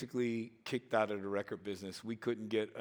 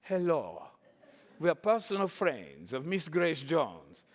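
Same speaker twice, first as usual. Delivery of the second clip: a mysterious diva voice with a foreign lilt; mock singer introducing herself; impression of a singer; 4 semitones higher, 4 dB louder than usual. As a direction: speak like a grand vamp at the club door. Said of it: "So we tried to put that together".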